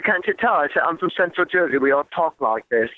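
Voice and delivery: joking in a put-on British accent; playfully British, deadpan local claim. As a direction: keep up a mock British accent. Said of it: "I keep with my accent".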